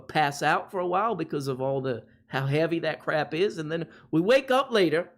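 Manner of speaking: lightly put-on Cajun accent. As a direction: tell it like a New Orleans local, mildly Cajun. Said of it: "This is my Cajun accent".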